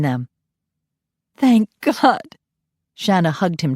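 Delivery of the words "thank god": higher, loud relief; relieved. Acted. Mother hugging her son, relieved. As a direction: breathe out the relief.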